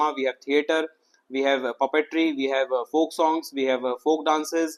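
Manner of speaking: very slow, each item stretched; unhurried teacher listing examples; drawn-out listing. Real, not acted. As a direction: lay out the list one slow item at a time. Listing art forms slowly.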